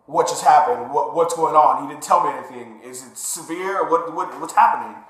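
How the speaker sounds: mildly agitated, stumbling retold questions; retold worried questioning. Patient left without answers by the doctor, retold worried questioning. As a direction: act out rising bewilderment, repeating words.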